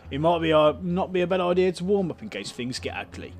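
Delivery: light Cockney councillor voice; a hint of Cockney, welcoming tone; Cockney accent. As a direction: play the councillor with a mild Cockney lilt. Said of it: "he's got a Cockney accent".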